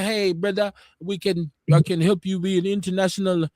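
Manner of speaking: bad African accent. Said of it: "I'm doing a bad African accent".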